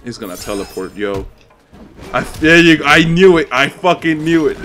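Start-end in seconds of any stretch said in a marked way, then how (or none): 2.1-4.6 loud, exasperated cry; vindicated outburst. Real, not acted. Gamer seeing the predicted teleport happen, loudly vindicated. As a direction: burst out loudly as the dread comes true. His prediction just came true.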